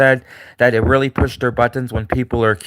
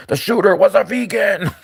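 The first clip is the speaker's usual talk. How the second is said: higher, put-on accusing pundit voice; mock Megyn Kelly; 7 semitones higher than usual. Imitating Megyn Kelly blaming a vegan shooter, high and shocked. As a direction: announce it like a shocked newscaster. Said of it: "Megyn Kelly's like".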